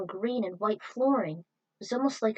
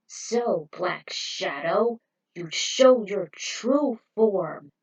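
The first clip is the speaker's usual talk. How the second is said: slow, louder deliberate words; slow defiant challenge; 5 dB louder, much slower than usual. Acted. Hero faces the transformed villain, a slow defiant challenge. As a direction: face down the monster.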